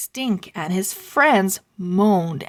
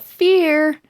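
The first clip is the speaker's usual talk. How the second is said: rallying call; 9 semitones higher, 6 dB louder than usual. Acted. Bookstore lady rallying crowd.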